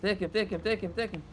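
normal talking voice

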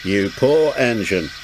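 grave. Acted. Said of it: "said the thin controller gravely".

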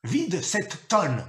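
ordre crié très lentement, plus aigu; détache chaque mot de l'ordre. A narrator's reading. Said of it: "cria-t-il". (le père ordonne à son fils de vider la tonne, en criant)

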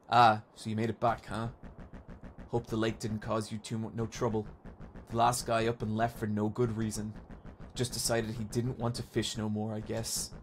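vague rural accent, softly underplayed; lightly put-on country angler's accent; put-on folksy accent. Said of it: "what accent we're going for here".

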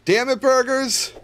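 high, loud, drawn-out rage yell; angry yell. Acted. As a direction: yell at the burgers in mock fury. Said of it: "Don't yell at the burgers".

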